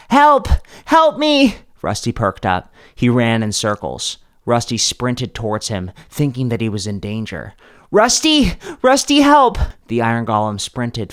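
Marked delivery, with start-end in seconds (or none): 0.1-1.6 high, loud staged scream; fake cry for help. Faking danger to lure golem. 7.9-9.6 high, loud frantic calling; calling for help. Acted. Calling golem toward lava.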